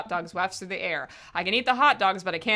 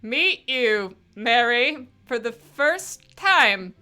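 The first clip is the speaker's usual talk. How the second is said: put-on drunk voice; 3 semitones higher, 4 dB louder, slower than usual. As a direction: slur it like a wine-soaked mom. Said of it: "I'm still gonna do the drunk voice".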